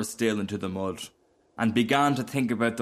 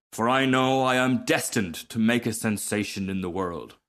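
a touch of grand self-importance; lightly voiced haughty Rocket; 2 semitones higher than usual. Rocket boasting to the Duck, mildly conceited. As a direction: boast with mild lofty disdain.

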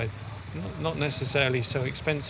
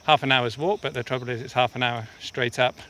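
panting out of breath from climbing; breathless, talking mid-climb. Real, not acted. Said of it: "that's why I'm out of breath".

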